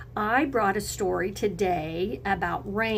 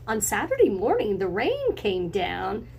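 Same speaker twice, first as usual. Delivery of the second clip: gentle storytime read-aloud; reading to children. A narrator's reading. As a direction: read it like a picture book for kids. Reading picture book aloud.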